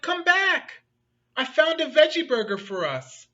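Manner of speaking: high loud call after a runaway friend; shouting. Acted. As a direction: call out across the distance. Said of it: "he shouted".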